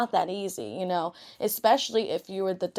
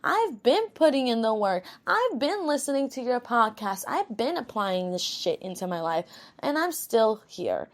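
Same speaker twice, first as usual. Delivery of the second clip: higher-pitched mock complaint from a listener; imitating a fed-up listener; 4 semitones higher than usual. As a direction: play the listener protesting she has done the work, voice pitched up. You're probably sitting there being like.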